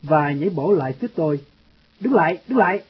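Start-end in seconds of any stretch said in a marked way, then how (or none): 2.0-2.8 sharp shout to stop, pitched high; shouted command. A narrator's reading. Husband shouting at the boy in his garden, a stern shout. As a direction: yell at the intruder to halt, lightly acted.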